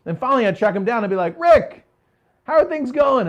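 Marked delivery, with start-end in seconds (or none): 1.4-3.3 calls out high and loud, overly friendly; a bright, loud hail across the room; loud cheery greeting. Retold or imitated. Tracking down a hiding client, a loud cheery greeting.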